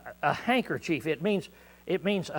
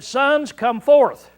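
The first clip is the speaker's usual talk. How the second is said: a father's call, lightly acted; mild soft call; 7 semitones higher, 7 dB louder, much slower than usual. Oliver calling his sons from the car, soft and old-fashioned. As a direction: call the boys in gentle Bible language. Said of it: "and he said".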